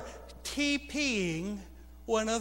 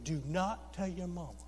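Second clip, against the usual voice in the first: much softer, low secret warning; conspiratorial hush; 4 semitones lower, 8 dB quieter than usual. Retold or imitated. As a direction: keep it down so mama won't hear. Secret order to the kids.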